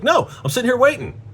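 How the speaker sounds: high-pitched, indignant protest; retold fed-up reply, voice jumping high; exasperated retort. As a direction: protest that you've been stuck waiting. Exasperated reply to wife's texts.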